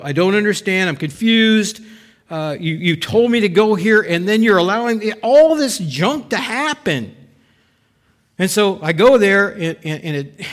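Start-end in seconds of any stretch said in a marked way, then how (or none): 0.0-7.1 a touch of bewildered complaint; mildly confused protest; confused Abram. Retold or imitated. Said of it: "this is Abram".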